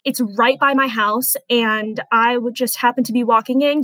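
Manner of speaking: ordinary talk, nothing marked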